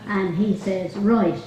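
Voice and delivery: a light put-on Dublin accent, laughing through it at times. Retelling a Maureen Potter sketch to the golf club, lightly Dublin accent. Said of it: "So I'm gonna put on the best Dublin accent".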